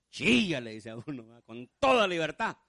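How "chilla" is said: loud, freeing call to cry; urging command. Acted. The Lord telling a man to cry, urging loud call. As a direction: call it out loud, a little higher. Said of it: "Ahora el Señor dice".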